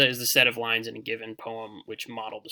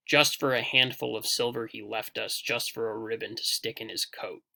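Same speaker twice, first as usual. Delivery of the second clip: verse recited in rolling threes; DUM-da-da rhythm, easing off on the second line; dactylic stress. Shown as a demonstration. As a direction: stress JUST for a HANDful of SILver. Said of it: "you can kinda hear that, that pattern".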